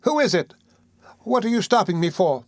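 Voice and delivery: put-on high, alarmed boy pleading to be let go; frightened protest. A narrator's reading. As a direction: Oliver struggles against the arms round his neck, high and alarmed. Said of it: "cried Oliver, struggling".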